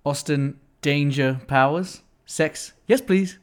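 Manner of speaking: a hint of a swinging British spy; Austin Powers. Host doing a light Austin Powers on request. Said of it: "an Austin Powers".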